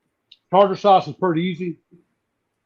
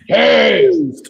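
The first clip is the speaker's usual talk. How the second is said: high, loud drawn-out call; catchphrase call; 9 semitones higher, 5 dB louder than usual. Real, not acted. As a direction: announce the bite like a showman. Tasting catchphrase.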